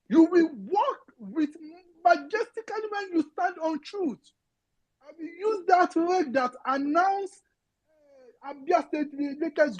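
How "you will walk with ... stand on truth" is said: voice breaking. Real, not acted. Crying heard, slow.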